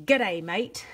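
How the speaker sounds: cheesy mock Australian greeting; hammed-up Australian or New Zealand twang; fake Australian accent. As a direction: put on a bad Aussie accent. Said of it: "as I do my fake accents".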